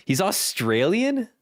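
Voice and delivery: high, drawn-out surprise at the narrator's accent; surprised. Real, not acted. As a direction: pitch jumps high on a slow, startled question. Learns narrator is Australian.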